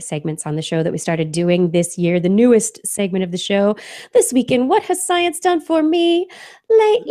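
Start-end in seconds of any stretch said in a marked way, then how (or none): 4.1-7.1 excited build-up. Acted. Segment title build-up.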